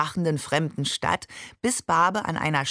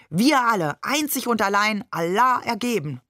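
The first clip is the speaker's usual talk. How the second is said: higher-pitched declaiming in imitation; mock proclamation; 4 semitones higher than usual. A narrator's reading. Shakir copies his brother's pious act, mock proclamation. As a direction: join the pretend sermon, pitched up. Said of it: "tat es ihm gleich".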